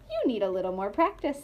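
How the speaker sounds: lightly voiced quick mouse. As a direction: rattle it off like a mouse.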